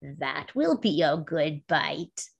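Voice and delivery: low, soft, slow mumble; mumbled to herself. A narrator's reading. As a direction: mutter it greedily under the breath. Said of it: "she mumbled to herself".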